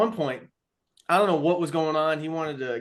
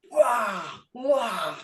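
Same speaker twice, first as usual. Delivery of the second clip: imitated whoosh; 6 semitones higher than usual. Imitating machine or players' reaction.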